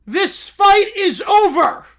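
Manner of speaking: loud, slow, high crying yell; sobbing referee shout. Acted. Shirtless Boris ends the fight to the crowd, crying loudly. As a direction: end the fight through hammed-up sobs.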